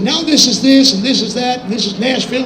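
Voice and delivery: a hint of a country host showing off his land; a country singer.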